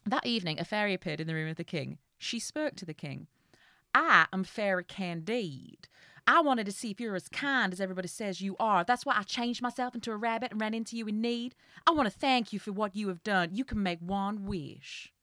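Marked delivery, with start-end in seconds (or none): 3.9-15.1 put-on Southern Belle accent. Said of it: "Southern Belle".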